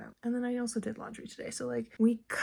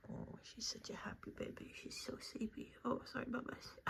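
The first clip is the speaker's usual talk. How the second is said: whisper; 15 dB quieter than usual. Real, not acted. Mom whispering beside her napping baby. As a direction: hush it so she doesn't wake.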